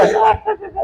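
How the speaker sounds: high, soft mock cackle; imitated laughter. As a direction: imitate someone just laughing it off. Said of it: "nomás se reía". (risa imitada, aguda)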